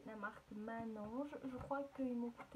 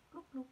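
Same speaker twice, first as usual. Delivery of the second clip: soft bubble-wrap pops; 2 semitones higher than usual. Pretend. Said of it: "j'adore le papier bulle".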